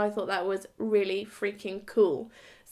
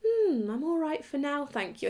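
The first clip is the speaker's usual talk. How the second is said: British politeness; 4 semitones higher than usual. Retold or imitated. Woman politely refusing her date's drawer of tampons, very British and polite. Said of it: "being very British and polite".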